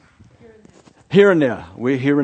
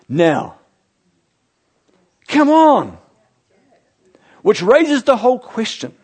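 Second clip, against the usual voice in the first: raised, louder preaching voice with punched key words; impassioned preaching; 5 semitones higher, 5 dB louder than usual. Real, not acted. Preacher urging the church that we're in it now, impassioned. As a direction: drive it home to the congregation.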